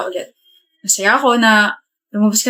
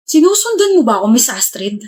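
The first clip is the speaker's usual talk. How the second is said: teasing sarcasm, pitched up; sarcastic. Acted. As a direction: needle her with a sly question. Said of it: "Sarcastic yun".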